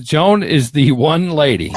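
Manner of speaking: "lady" slowed and leaned on; slow, deliberate emphasis on "lady"; stress on "lady". Real, not acted. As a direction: draw out the line to land firmly on "lady". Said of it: "and I stress the word lady".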